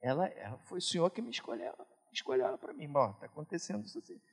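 soft, private words to Jesus; a husband telling Jesus his troubles, hushed; hushed prayer. Retold or imitated. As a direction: murmur it like a quiet prayer. Eu falo.

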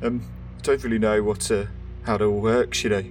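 hesitant, apologetic stumbling; halting with small pauses, mildly unsure; a bit nervous. Acted. Nervous officer unsure how it all works, hesitant delivery. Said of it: "look a bit nervous".

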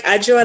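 Ajwa spoken with a J sound, rising; name pronunciation. Shown as a demonstration. Guest patiently shows host how to say Ajwa. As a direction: clearly demonstrate Ajwa with J. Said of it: "like a J".

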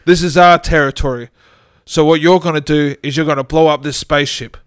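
a ghost boss ordering Joey around; stern voice. Acted. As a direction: lay down the law like a boss. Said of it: "in a stern voice".

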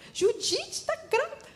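high, far-off gossipy coworker voice; gossiping coworker. Retold or imitated. Coworkers spreading news Judite is pregnant, high gossipy. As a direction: chirp it like excited office gossip.

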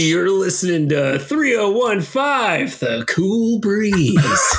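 slow, smooth radio DJ; drawn-out late-night DJ. Shown as a demonstration. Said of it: "radio voice".

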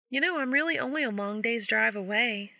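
light, teasing and eager friend; female friend voice. Acted.

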